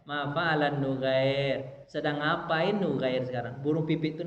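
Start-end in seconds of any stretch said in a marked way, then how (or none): 0.1-1.8 slow, lightly drawn-out call; gentle teasing. Retold or imitated. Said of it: "Terus Nabi candain".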